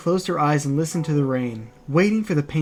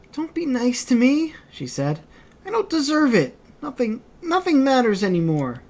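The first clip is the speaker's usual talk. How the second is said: put-on girl in despair; 9 semitones higher than usual. Kaine in despair.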